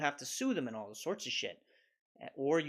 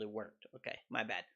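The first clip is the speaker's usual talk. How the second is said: soft, lower admission; sheepish concession; 6 semitones lower, 7 dB quieter than usual. Real, not acted. Admitting he misjudged the sponsorship, soft and sheepish. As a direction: quietly own the mistake.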